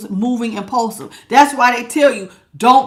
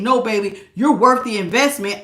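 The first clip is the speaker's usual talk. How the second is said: gentle reassurance; 2 semitones lower than usual. Retold or imitated. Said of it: "God has linked up with me and said".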